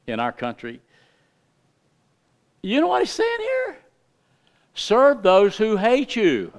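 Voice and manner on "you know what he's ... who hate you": fervent preaching. Real, not acted. Preaching at full force.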